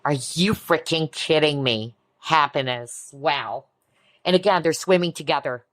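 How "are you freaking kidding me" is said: ordinary delivery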